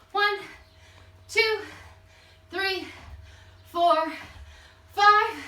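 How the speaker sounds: high, punched count during jump squats; calling out reps. Real, not acted. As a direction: call each rep out with effort. Coach calls out exercise reps while jumping.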